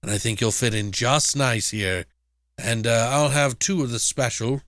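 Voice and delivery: put-on a slick old professor luring a guest in; sly professor voice. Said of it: "he's like".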